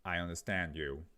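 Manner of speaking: flat, even words with no stress; a hint of a computer voice; robotic voice. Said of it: "Jacob will be more robotic".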